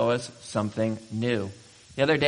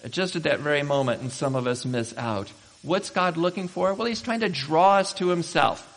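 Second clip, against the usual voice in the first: ordinary talk, nothing marked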